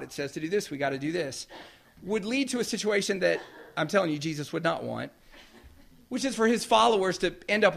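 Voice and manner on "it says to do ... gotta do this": stiff, mechanical robot reading. Pretend. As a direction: read it word for word like a machine. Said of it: "let's read it like a robot".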